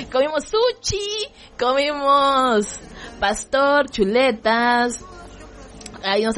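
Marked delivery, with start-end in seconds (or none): 0.1-5.0 giggling squeal; laughing. Real, not acted. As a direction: crack up while repeating it. Repeats it laughing.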